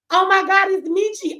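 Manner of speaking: high, loud mock-crying greeting; imitated tearful fan. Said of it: "y'all will be crying".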